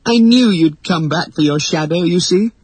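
high-pitched, gushing excitement; thrilled young girl's high voice; delighted. A narrator's reading. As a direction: gush to a long-awaited hero. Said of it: "she cried with delight".

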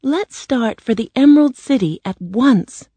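put-on high, eager girl's call; bright-eyed storybook girl crying out. A narrator's reading. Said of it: "Dorothy cried".

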